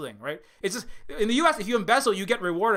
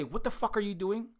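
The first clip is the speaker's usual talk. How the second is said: mock imperial Britain; 3 semitones higher than usual. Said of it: "Britain would come and say".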